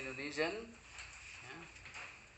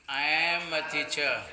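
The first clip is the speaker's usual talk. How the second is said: drawn-out classroom English; slow, careful example for the class; slow model sentence; 5 dB louder, slower than usual. Shown as a demonstration. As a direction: stretch each word for learners.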